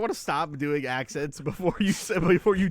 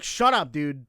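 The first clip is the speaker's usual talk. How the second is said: stern telling-off; 5 dB louder, slower than usual. Retold or imitated. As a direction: put your foot down firmly. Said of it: "you just gave him, like, the sternest".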